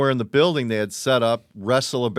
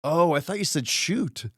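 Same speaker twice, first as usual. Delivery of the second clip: slow, higher, clueless reply; dim friend; 6 semitones higher than usual. Retold or imitated. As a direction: say it slowly like a clueless dope. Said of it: "his friend goes".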